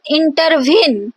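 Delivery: "intervene" said slowly with emphasis on final VEEN; stress on last syllable. Shown as a demonstration. Teacher emphasizing the anapest for students, stress on last syllable. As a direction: lean on the VEEN at the end of "intervene". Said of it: "as we emphasize".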